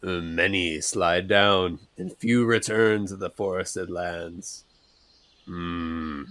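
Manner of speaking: slow, low cryptic pronouncement; enigmatic. Acted. Bruce answers the worried companion, slow and cryptic. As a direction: speak like a riddling sage, slow. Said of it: "enigmatically respond".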